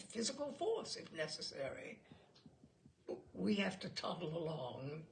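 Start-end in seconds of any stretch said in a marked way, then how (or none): 3.3-5.1 level. Acted. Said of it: "Bill said levelly".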